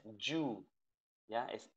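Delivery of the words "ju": "you" said with a hard j, like joo; hard-onset you. Shown as a demonstration. Teacher warns against this version, hard "you" as joo. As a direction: start "you" with a j as in jeep. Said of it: "no es you".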